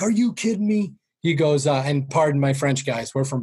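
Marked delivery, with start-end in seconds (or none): 0.0-0.9 amazed disbelief. Retold or imitated. Dad amazed at the check.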